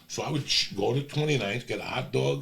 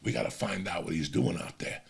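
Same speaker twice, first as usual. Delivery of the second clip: hushed; 3 semitones lower, 10 dB quieter than usual. Retold or imitated. Hiding in bedroom, hushing Arnaldo.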